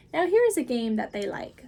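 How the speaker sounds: put-on the Cat in the Hat calming the children, big and upbeat. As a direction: reassure the kids with a grand flourish. Cat announces.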